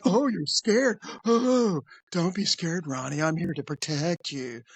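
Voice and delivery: mock-soothing cartoon creep; South Park creep. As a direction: imitate a creep offering comfort. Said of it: "That's how he talked".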